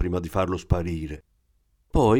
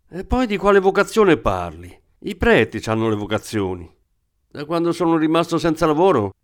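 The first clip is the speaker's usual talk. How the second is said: high-pitched, aggrieved working-class man; the thief venting his hard luck to the woman; agitated thief; 3 semitones higher than usual. Acted. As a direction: vent every complaint in one breath.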